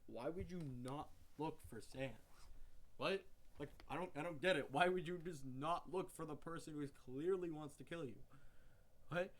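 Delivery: can't believe what you're hearing; incredulous disbelief. Retold or imitated. Ranting to viewers about the random trick, loud baffled disbelief. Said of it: "and I'm just like".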